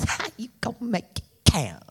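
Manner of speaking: hint of Chris Rock, brisk and punchy. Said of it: "say it in my Chris Rock voice".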